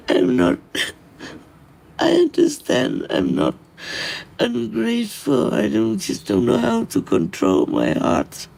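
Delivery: tearful. Real, not acted. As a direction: fight back tears while explaining. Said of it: "I'm just too emotional".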